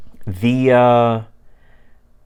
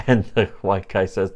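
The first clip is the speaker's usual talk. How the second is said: usual speaking voice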